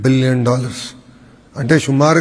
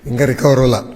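real voice strain after cheering; voice gone from shouting. Real, not acted. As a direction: talk on a throat worn out from yelling for the team. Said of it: "గొంతు పోయింది, నేను అరిసి అరిసి".

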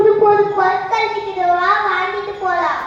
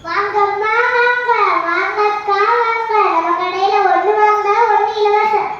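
singsong street hawker. Acted. Shopkeeper calling customers.

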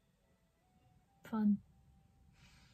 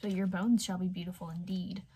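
mild rasp; 3 semitones lower than usual. Acted. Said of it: "it rasped".

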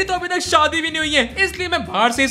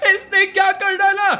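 ordinary talk

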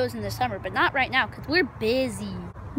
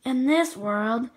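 menacing flower; 6 dB louder, much slower than usual. Acted.

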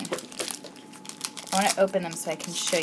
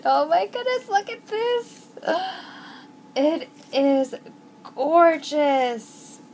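much higher, slow and drawn out; excited squeal; 8 semitones higher, 5 dB louder, slower than usual. Real, not acted. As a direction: stretch it in thrilled wonder. Awe at box.

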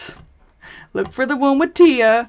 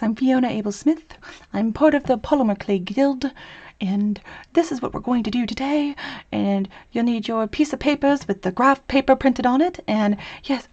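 a lightly whispered tutorial voice, barely changed; hint of a soothing tutorial host; Fiona impression. To viewers, lightly mimicking the clay tutor's soothing voice. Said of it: "This is how she talks".

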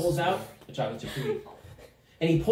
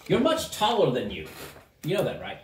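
lightly voiced gnome, near usual pitch; musing gnome. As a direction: remark on it as an odd gnome. Gnome remarks, first take.

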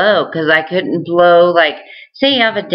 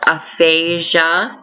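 Aphasia said slowly, each syllable clear; slow careful Aphasia; slower than usual. Shown as a demonstration. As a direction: stretch out Aphasia deliberately.

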